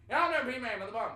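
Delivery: high, loud hillbilly gibberish in West Virginian; hammed-up unintelligible West Virginia accent; mock West Virginian accent. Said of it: "some crazy hillbilly whi-, whisperer".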